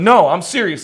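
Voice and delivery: acted-out indignant outburst; a little loud. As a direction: cut in and insist you mean it. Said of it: "I got a little loud with him".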